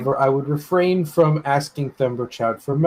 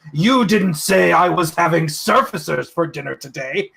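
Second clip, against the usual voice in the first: joking dragon. Acted. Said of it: "the dragon chuckles at his own wit".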